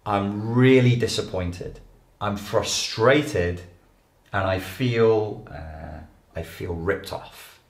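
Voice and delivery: slow, measured naming of feelings; name each feeling slowly and calmly. Shown as a demonstration. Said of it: "you would be able to say".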